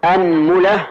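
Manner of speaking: أنملة with u on the mim, anmula; أنملة, mim rounded to mu; anmula with damma on mim. Shown as a demonstration. Teacher lists the mim variants for the class, anmula. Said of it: "فنقول".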